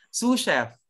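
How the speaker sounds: "Sous chef" as a firm "SOO shef"; pronunciation demo. Shown as a demonstration. Teacher prompts students to repeat quickly, "Sous" pronounced "soo". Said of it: "Pronounce nyo".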